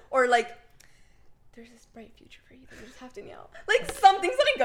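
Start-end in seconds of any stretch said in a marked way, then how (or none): 1.5-3.5 soft, hushed mock prophecy; imagined fortune teller. Imagined tarot reader foretelling her future, hushed and solemn. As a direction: deliver a fortune quietly, play-acting. Voices hoped-for tarot prediction.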